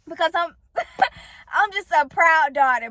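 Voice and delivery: real tearful catch with a short laugh; near tears. Real, not acted. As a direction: choke up, half laughing. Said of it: "wanna bring me to tears".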